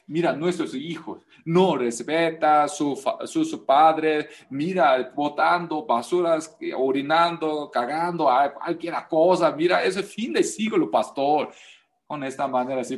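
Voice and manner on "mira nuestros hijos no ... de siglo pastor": mild imitation of a complaining church member; quoting churchgoers. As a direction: imitate a worried member talking to the pastor. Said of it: "Muchas personas se dicen".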